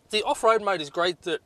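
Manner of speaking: hiccuping mid-sentence; hiccups. Real, not acted. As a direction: talk through a hiccup. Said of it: "I got the hiccups".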